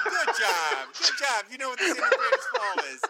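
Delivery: pat him on the head with your voice; sarcastic teacher cooing over an obvious answer; condescending teacher. Retold or imitated. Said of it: "like a teacher that doesn't expect a lot".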